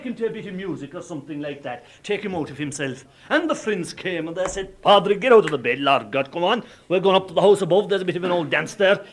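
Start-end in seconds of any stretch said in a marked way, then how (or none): 4.8-9.0 loud, hearty urging to get up; coaxing call. Acted. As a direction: rouse a sulking friend from his bed. Friends rousing him from bed.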